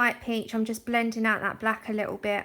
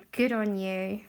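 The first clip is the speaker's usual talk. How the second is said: sarcastic; 3 semitones lower, slower than usual. Real, not acted. Sarcastic about trolls.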